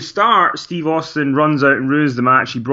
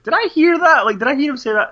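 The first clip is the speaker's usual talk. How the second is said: high, incredulous double-take; retold disbelief; 12 semitones higher, faster than usual. Viewer rewinding the tape, imitated incredulous reaction. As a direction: act out doubting your own ears.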